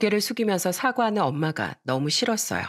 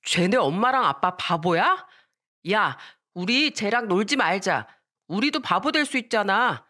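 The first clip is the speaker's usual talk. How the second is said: put-on jeering kids; 2 semitones higher than usual. Other children jeer at her in front of everyone, mild childish yell. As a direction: call out like a kid shunning a playmate. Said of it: "다른 친구들도 저를 보면서 소리쳤습니다".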